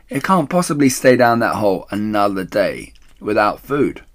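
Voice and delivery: loud, high bossy call. Acted. Missus Bean calls down from upstairs, loud and bossy. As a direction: lecture her from upstairs.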